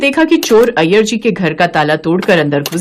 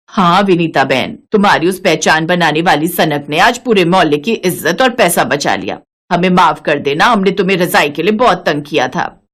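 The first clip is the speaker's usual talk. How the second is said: lower-pitched neighbour character; lightly voiced apologetic neighbour; 4 semitones lower than usual. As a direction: apologise in a slightly deeper voice. Second neighbour apologising in story.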